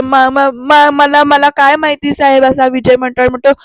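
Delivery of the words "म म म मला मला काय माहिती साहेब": loud, stuttering mock panic; flustered stammer. Vijay denies it to Shirke, flustered stammer. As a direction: trip over the first word as if caught out. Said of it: "असं सारवासारव करतो".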